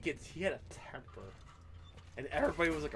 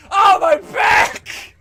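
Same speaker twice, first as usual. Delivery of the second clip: loud, drawn-out fake pain yell; mock scream; 9 semitones higher, 14 dB louder, much slower than usual. Coworker faking an injury, hammed-up pained scream. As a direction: ham up a fake back injury. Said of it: "he fucking screams".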